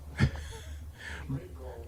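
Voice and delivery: soft, quick laugh at own remark; low-key amused laugh; short chuckle. Real, not acted. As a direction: chuckle quietly to yourself.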